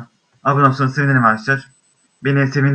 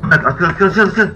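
excited cheering; 5 semitones higher than usual. Real, not acted. Cheering game character on.

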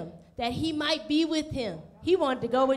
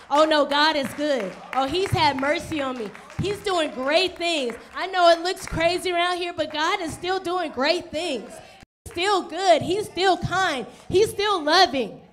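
steadfast joy; 2 semitones higher, 5 dB louder than usual. Pretend. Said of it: "the one who's gonna be steadfast".

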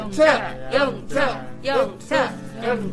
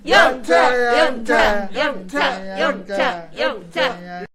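heave-ho shout; 5 semitones lower, 10 dB louder than usual. Acted. Ants haul food together.

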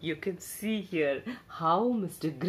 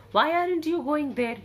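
higher, louder gruff demand; 8 semitones higher, 4 dB louder, faster than usual. A narrator's reading. Grouchy bear demanding an answer from the cub, louder. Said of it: "he demanded".

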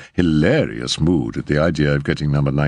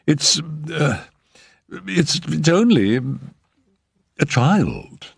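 much higher, faltering voice; nervous agent voice; 10 semitones higher, slower than usual. A narrator's reading. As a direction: blurt it out high and nervous.

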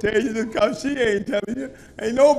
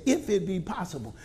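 quiet repeat; 5 semitones lower, 12 dB quieter than usual. Shown as a demonstration. Preacher repeating the verse to the congregation, soft and low. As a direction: drop to a soft, low "If it be possible". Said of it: "people really can't understand. Say".

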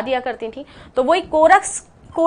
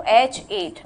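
"एच एट" said slowly, each syllable stretched out; slow demo; 4 semitones lower, much slower than usual. Shown as a demonstration. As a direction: draw out "एच एट" so it sounds like eight. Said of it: "कैसा sound कर रहा है?". ("एच एट" धीरे-धीरे खींचकर बोलें)

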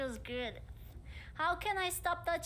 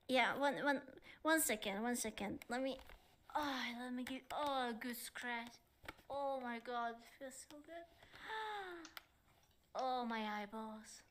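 much softer, sighing with pleasure; blissful relief; 2 semitones lower, 8 dB quieter than usual. Real, not acted. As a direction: melt into the scratch. Second take, scratch relief.

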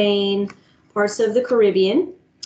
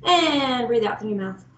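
calming breathing cue. Shown as a demonstration. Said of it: "Let's find that steady beat".

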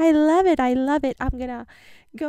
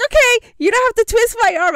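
eager quoted agreement; 8 semitones higher, 9 dB louder, much faster than usual. Retold or imitated. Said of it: "And I was like".

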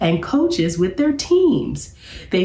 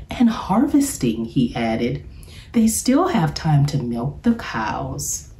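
professor voice. Acted. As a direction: play the jolly professor pitching a job.

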